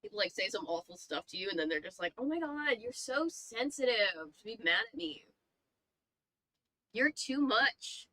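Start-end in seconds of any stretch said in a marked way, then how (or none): 2.2-8.1 mimicking a dismissive critic, pitched up; mock them, dragging out the last words; mocking imitation. Mimics people who dismiss feelings.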